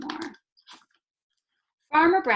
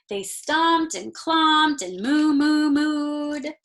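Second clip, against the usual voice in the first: higher and louder, playful animal noises; lively romp; 6 semitones higher, 6 dB louder, much slower than usual. A narrator's reading. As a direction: stomp through it like excited cows. Cows stomping and mooing.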